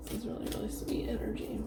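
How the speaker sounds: soft whisper. Real, not acted. Soft aside during card reading.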